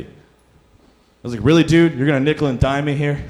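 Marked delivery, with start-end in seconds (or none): 1.4-3.2 louder, higher incredulous protest; exasperated disbelief. Retold or imitated. Protesting to the robber demanding fifty more, incredulous. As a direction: throw it back at him in disbelief.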